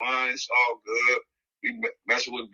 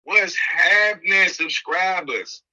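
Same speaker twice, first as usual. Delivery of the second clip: drawn-out greeting; 4 semitones higher, slower than usual. Acted. Podcast host greeting subscribers, drawn-out call. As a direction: stretch it out like a show opener.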